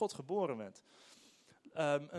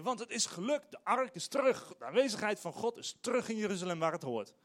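higher, louder burst of triumph; imagined excited king rejoicing; 5 semitones higher, 4 dB louder than usual. Retold or imitated. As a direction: cheer that the ark is back. David's joyful thought coming home.

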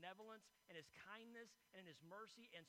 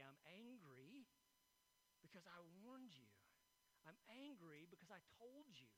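loving parental rebuke; 6 dB quieter than usual. Retold or imitated. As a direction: scold gently, like a grieving mother. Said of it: "there's also a love to say".

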